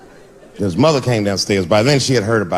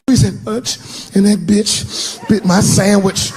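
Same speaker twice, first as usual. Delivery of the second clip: put-on kid's voice; 8 semitones higher, slower than usual. Son complaining.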